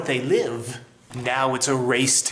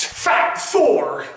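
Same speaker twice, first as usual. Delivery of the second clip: excited; 6 semitones higher, 4 dB louder than usual. Real, not acted. Excited announcement.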